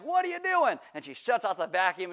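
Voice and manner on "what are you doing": put-on startled teen. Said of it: "I'm like".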